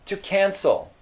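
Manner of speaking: mock-surprised clerk guessing; thinking aloud as Pierre. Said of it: "he's already thinking".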